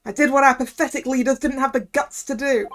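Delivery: scornful, ranting Cockney journo; Cockney journalist. Acted. Journalist confesses the stabbing to the court, ranting in Cockney. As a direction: spit out a righteous Cockney confession with punched words. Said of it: "making the journ-, uh, the journalist guy Cockney".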